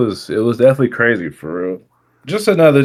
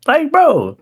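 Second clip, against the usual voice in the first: laughing disbelief; much slower than usual. Real, not acted.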